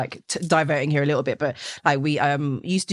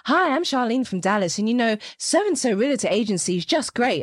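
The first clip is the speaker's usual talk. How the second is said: lightly voiced upbeat realtor, a little higher; realtor testimonial; 4 semitones higher than usual. Pretending to be Charlene the Dallas realtor, lightly upbeat. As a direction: pitch yourself as a cheery realtor in a fake testimonial. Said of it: "Charlene from Dallas with my British accent".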